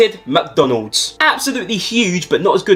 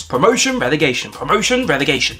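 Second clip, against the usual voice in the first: up-down sing-song; 2 semitones lower than usual. Acted. Chanting ups and downs.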